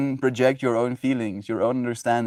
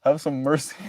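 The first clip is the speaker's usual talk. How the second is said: exasperated plea; 5 semitones higher, much slower than usual. Retold or imitated. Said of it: "And I'm like".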